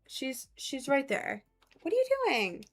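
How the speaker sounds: hushed to the cat. Real, not acted. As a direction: hush it down to the cat. Softly addressing the cat.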